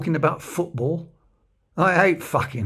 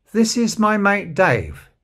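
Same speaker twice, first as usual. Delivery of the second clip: mock announcement; 8 semitones higher, 6 dB louder, slower than usual. Mock introducing Dave loudly.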